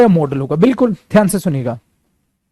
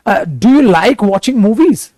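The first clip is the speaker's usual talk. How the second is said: slow example question; 2 semitones higher, much slower than usual. Shown as a demonstration. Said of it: "जैसे आपने किसी को बोला".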